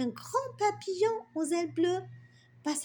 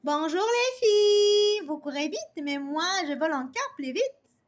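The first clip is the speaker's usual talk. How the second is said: joyful butterfly; 3 semitones higher, 5 dB louder than usual. Acted. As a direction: greet the girls like a merry butterfly. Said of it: "parla d'une voix joyeuse". (papillon joyeux, salut lent et gai)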